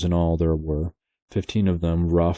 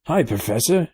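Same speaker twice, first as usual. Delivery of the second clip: high sailor's call; 9 semitones higher than usual. A narrator's reading. Sailor calling the professor, mock shout. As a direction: hail the old man across the sand. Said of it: "he called".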